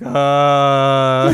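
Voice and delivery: loud, long mock groan of dismay; drawn-out uh. Retelling Azusa caught off guard, flustered. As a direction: draw out a big "uhh". Retold flustered reaction in story.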